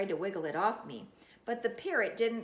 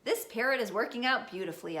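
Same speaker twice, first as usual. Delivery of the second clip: calling out; 3 semitones higher, 4 dB louder, faster than usual. Acted. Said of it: "I called again".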